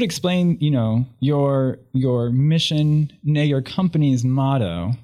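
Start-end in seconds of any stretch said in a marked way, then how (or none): 1.2-4.9 slow, mock-solemn emphasis; slow and grand. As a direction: draw it out like a proclamation. Slow grand build to motto.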